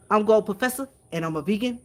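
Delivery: a light try at his smooth, velvety radio voice; Gold Professor impression. Streamer tries out Gold Professor's velvety intro voice, lightly imitated. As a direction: ease into a mellow announcer intro, first attempt. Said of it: "that's my velvety voice".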